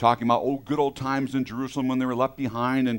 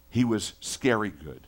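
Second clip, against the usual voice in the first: ordinary talk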